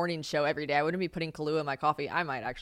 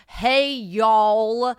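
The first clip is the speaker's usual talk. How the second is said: loud, drawn-out mock country twang; exaggerated Southern country holler; country American accent; 4 semitones higher, 10 dB louder than usual. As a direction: imitate Brits doing country American, big and loud. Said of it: "They all make us sound country".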